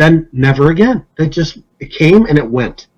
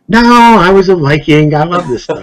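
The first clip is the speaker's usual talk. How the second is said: mock eager client; 3 semitones higher than usual. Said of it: "he was just so animated".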